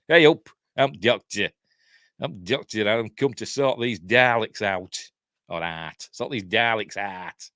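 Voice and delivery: hammed-up Yorkshire accent, slow at the end. Host imagines a Yorkshire Doctor sorting out Daleks, mock broad Yorkshire accent. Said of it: "should have had a Yorkshire accent".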